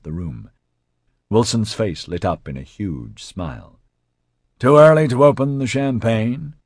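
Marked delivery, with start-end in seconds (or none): 4.6-6.5 lightly asked, high and lifted; light inquiry. A narrator's reading. Raphael asks the room about champagne, inquiring lightly. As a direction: toss out the question lightly, voice raised. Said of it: "Raphael inquired lightly".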